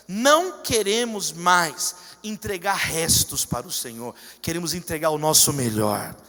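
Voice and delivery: loud, emphatic congregational prayer; fervent prayer. Real, not acted. Pastor leading the congregation to renounce idols, fervent prayer. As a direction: pray forcefully, drawing out key phrases.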